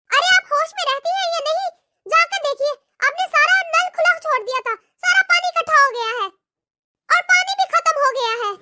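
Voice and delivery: a lightly voiced, sharp young daughter-in-law; scolding daughter-in-law. Daughter-in-law scolding her mother-in-law, sharp and contemptuous.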